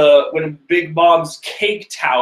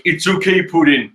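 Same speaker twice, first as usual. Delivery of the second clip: terrible voice. Acted. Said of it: "That's a terrible voice".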